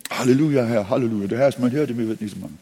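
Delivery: exultant Halleluja then the verse; joyful hallelujah reading of the psalm; joyful praise. Shown as a demonstration. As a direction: read it as jubilant worship. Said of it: "Du kannst lesen".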